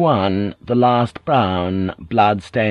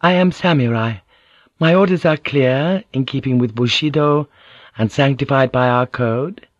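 lightly voiced lady declaring her duty; slightly raised, formal and firm; noblewoman, resolute; 2 semitones higher than usual. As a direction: state the code with understated resolve.

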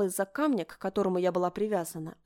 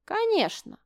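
high, loud, mocking; scoffing; 12 semitones higher, 3 dB louder, slower than usual. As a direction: toss it off with contempt. Princess scoffs, high and bright.

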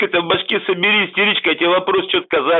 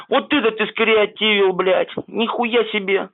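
sarcastic slow praise; 6 semitones higher than usual. Acted.

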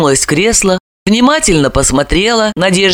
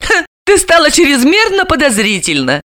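smirking; 8 semitones higher than usual. A narrator's reading. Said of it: "усмехнулась".

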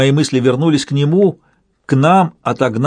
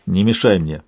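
low angry rebuff; 5 semitones lower than usual. Acted. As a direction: push him off, low and cold. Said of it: "сердито сказал я". (сердито, низким голосом)

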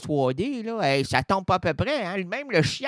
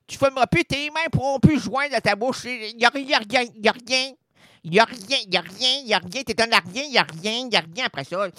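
mock preacher warning; 6 semitones higher, 4 dB louder than usual.

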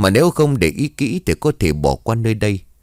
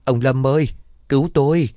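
higher-pitched, mildly acted cry for help; calling out for help; 6 semitones higher than usual. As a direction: call to the husband for rescue, pitched up. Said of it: "miệng hô lớn". (hô cầu cứu, giọng cao, diễn nhẹ)

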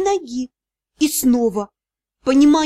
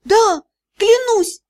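slow, high cry; desperate vow; 7 semitones higher, 3 dB louder, slower than usual. A narrator's reading. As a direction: swear it desperately. Desperately swearing to the sea god. (отчаянная клятва)

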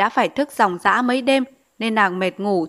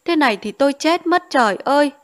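sobbing despair; 5 semitones higher than usual. Acted. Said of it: "vẫn thổn thức".

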